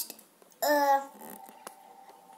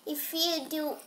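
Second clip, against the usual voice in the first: whispering; 5 semitones lower, 10 dB quieter than usual. Real, not acted. Whispered mid-sentence.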